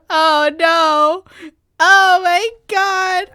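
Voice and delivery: high, loud slow dismay; drawn-out distressed gasp; dread. Real, not acted. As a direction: groan in horrified realisation. Realizing what is coming.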